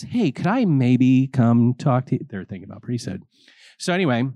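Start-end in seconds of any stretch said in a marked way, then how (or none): 0.0-2.3 slow, louder tentative ask; a nervous young man working up to it; hesitant young man. Retold or imitated. The young man asks the vocation director for a talk, hesitant. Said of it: "a young man says".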